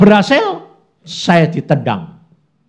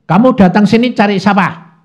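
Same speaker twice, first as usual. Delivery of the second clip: sharp scolding, louder; mock scolding; 8 semitones higher, 9 dB louder than usual. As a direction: snap at the visitor as if angry. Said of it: "saya marahinya pertama gini".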